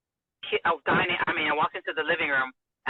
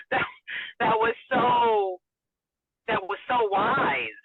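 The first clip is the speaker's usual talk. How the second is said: slow, teary and moved; choked up; 6 semitones higher, slower than usual. Real, not acted. Wife recalling husband's wise words, teary and slow. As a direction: voice breaking with emotion. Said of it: "emotional, crying".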